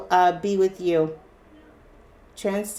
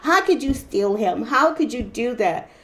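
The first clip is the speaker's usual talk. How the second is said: higher and louder, wounded and accusing; hurt angry woman; 3 semitones higher, 4 dB louder than usual. Retold or imitated. Reader voicing the hurt ex confronting the rival, angry. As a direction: voice the jilted partner's outrage. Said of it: "It's her".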